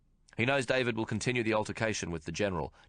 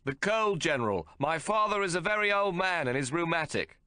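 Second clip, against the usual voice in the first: weak excuse; 9 semitones higher than usual. A narrator's reading. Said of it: "He smiles weakly".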